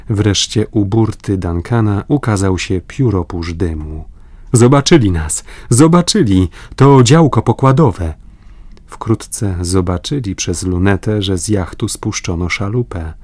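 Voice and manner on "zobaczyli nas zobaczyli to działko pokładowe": higher, louder excited cries; joyful excitement. A narrator's reading. The stranded men rejoice that the yacht has seen them, excited. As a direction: burst out with relief and joy.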